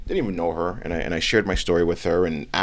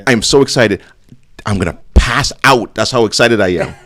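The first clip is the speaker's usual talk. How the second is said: mock excitement; 2 semitones higher, 11 dB louder than usual.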